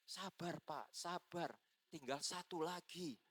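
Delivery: high-pitched teasing imitation; mocking. Possessed woman tells the pastor to be patient, mocking. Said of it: "dia agak ngeledek".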